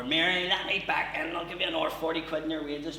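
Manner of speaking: lightly voiced pleading dad at the door; begging dad. Drunk dad begging his wife through the door, lightly pleading. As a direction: wheedle to be let back in.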